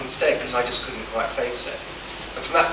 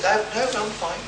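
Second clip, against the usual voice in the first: laughing; 11 semitones higher, 6 dB louder than usual. Retold or imitated. Politely refusing the driver's offer.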